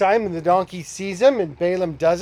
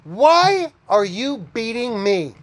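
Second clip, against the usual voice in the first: talking donkey; 3 semitones higher, slower than usual. Retold or imitated. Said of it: "the donkey turns and says".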